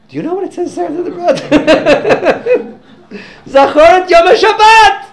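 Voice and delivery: ringing loud declaration, half laughing; triumphant exclamation. Retold or imitated. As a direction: declare it like a winning point. Speaker triumphantly quotes commandment.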